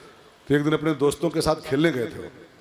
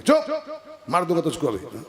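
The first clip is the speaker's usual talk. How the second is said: threatening husband; 2 semitones higher than usual. Retold or imitated.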